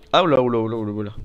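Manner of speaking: startled oula oula; panicked yelps; panicking gamer. Real, not acted. Creature attacks, low health.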